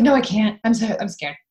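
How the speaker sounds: pretending to panic about going pee; mock potty fear. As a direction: play a kid too terrified to use the toilet. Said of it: "I'll be like".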